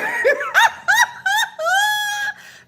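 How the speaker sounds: high shrieking burst of laughter. Real, not acted. Psychic laughing off a viewer's threat, shrieking laugh. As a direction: let a piercing laugh rip out. Reader mocks threatening commenter.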